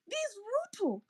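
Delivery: hissed name in a whisper. Real, not acted. Ranting about the president, whispers his name. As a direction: breathe the name with contempt.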